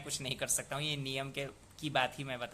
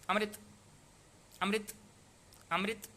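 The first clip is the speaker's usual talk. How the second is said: quick pronunciation; 6 semitones higher than usual. Shown as a demonstration. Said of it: "ऐसे ही जल्दी से बोलना पड़ेगा".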